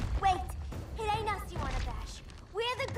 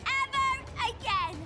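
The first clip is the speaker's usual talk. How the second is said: louder, higher burst on each word; defiant outburst; 6 semitones higher, 4 dB louder than usual. Acted. Harley rejects the slick fella, defiant outburst.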